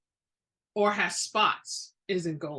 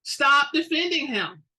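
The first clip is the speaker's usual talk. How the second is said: louder, higher, slow stern command; angry snap; 6 semitones higher, 6 dB louder than usual. Acted. Witch shutting down her friend's defense, loud angry command. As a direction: cut her off hard.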